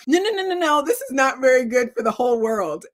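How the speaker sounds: high, loud, fast protest; emphatic protest. Retold or imitated. Author telling her friend the draft is bad, high and emphatic. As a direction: insist it is truly bad, fast. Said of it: "And so I was like".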